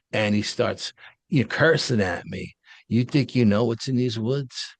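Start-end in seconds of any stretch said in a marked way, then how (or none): 2.9-4.7 retold cop yelling. Retold park cop cursing at the driver to stay out of his woods, mock rant building to a yell. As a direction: replay the cop's tirade, winding up as it goes. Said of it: "And he's screaming at me".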